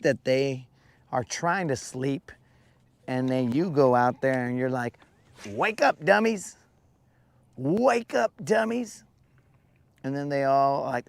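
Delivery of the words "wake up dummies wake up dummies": higher teasing call to sleepy roosters; mock wake-up call. Acting out Creel rousing his roosters, in a higher teasing call. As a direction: rouse them like a pushy farmer.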